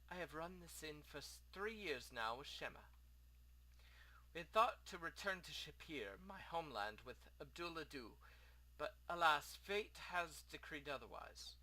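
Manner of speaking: lightly voiced foreign innkeeper; a hint of an exiled host; courteous innkeeper. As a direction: speak formally, with a rough try at an accent. Plays the innkeeper.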